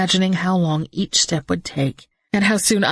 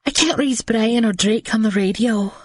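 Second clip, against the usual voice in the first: shaky voice; 5 semitones higher than usual. Acted. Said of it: "she said in a shaky voice".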